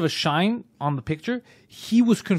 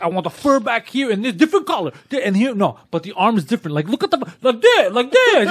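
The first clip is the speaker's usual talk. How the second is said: higher, louder mock demands; mock yelling; 4 semitones higher, 3 dB louder than usual. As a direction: pile on orders loudly. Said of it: "just yelling, okay?".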